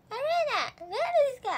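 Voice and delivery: high, loud flustered stammer; a nervous girl losing her words. Retold or imitated. Imitating herself getting nervous on stage, flustered and high. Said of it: "ってなるんですよ".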